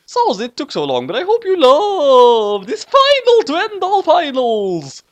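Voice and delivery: high, excited bragging; hyped author's note. Acted. Author hyping readers about the grand finale. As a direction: oversell it like an epic.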